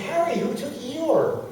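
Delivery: high, drawn-out plaintive appeal; mock panic. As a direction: plead with a partner in comic distress. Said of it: "I panicked, and I was, like, really upset".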